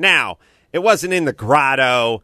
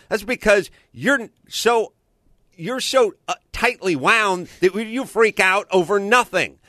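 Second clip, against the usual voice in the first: heated scolding; 6 semitones higher than usual. Retold or imitated. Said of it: "Here's what she needs right now".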